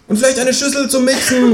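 high-pitched kangaroo call; kangaroo calling after. A narrator's reading. Kangaroo wants a bowl from departing neighbour, high call. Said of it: "ruft mir das Känguru hinterher".

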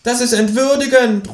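high indignant cry; indignant kangaroo; offended kangaroo protests from the belt; kangaroo calls out. A narrator's reading. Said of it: "ruft das Känguru".

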